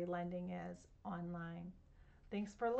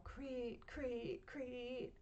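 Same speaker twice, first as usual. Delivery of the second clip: cricket chirp; 3 semitones higher, 5 dB quieter, much slower than usual. A narrator's reading. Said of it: "The crickets go".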